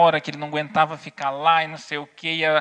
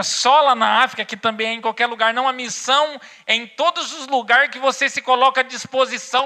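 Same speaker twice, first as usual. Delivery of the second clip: raised, high-pitched preacher's delivery; impassioned preaching; 9 semitones higher, 4 dB louder than usual. Real, not acted. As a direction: drive the message home to the congregation, voice pitched up. Preaches the closing point. (pregação inflamada, voz elevada)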